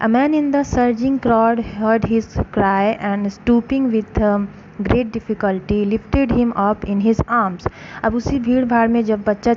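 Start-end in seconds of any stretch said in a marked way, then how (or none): 0.1-7.7 slow, careful read-aloud for a class; story narration. A narrator's reading. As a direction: read each phrase slowly for students. Slow English story reading.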